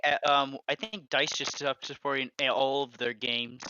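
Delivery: choppy broken-up audio; packet loss buzz. Real, not acted. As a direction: voice cutting in and out. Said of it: "your audio is choppy".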